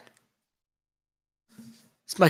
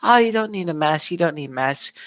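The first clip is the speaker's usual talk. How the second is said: mocking the WHO; 4 semitones higher than usual. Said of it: "remember when the W H O said".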